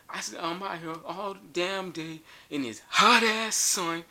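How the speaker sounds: going off. Retold or imitated. Homeless man going off at the comedian, high indignant rant. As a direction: play the homeless man's offended tirade. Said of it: "he just go off".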